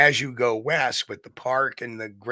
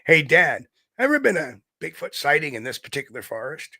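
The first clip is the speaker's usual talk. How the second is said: son calling out; 3 semitones higher than usual. Retold or imitated. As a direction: hail your dad, then ask eagerly. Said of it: "show you my connection".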